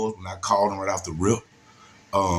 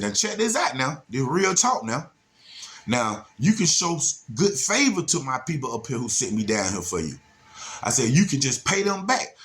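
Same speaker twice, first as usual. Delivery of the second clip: Chris Tucker style hustle; 5 semitones higher than usual. Retold or imitated. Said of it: "Chris Tucker off, off, um".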